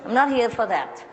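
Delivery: a touch of huffy complaint; annoyed plumber. Retold or imitated. Plumber leaving, mildly irritated at the lady. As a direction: brush her off, fed up. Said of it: "packed his stuff and said".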